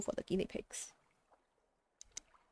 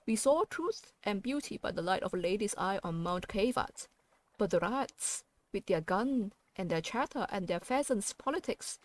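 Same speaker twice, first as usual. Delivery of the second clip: regal seneschal. Acted. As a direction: declaim it like a courtly herald. Seneschal's speech continues in game text.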